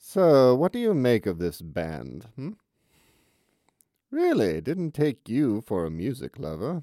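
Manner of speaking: put-on loud British accent laid on too thick. Rehearsing a scripted line to a woman, trying a too-British accent. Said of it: "Too British, too British".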